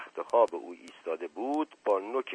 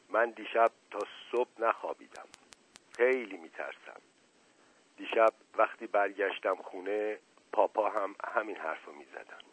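softer, hushed worried confession; quietly; 5 dB quieter than usual. Acted. Leili quietly telling the narrator her fear, hushed.

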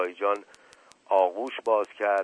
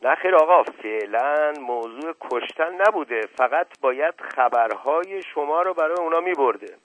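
jumps in quickly, raised; mild hasty interjection; hurried interruption; 7 semitones higher, 7 dB louder than usual. Acted. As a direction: rush to cut in. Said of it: "با عجله به میان حرف او دوید".

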